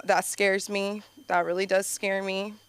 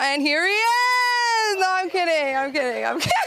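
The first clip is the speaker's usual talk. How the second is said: mock crying; 8 semitones higher, 3 dB louder than usual. Mock sob about gym.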